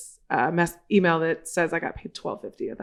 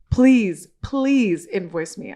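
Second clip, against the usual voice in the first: pleading; 3 dB louder, much slower than usual. Retold or imitated. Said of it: "And she goes".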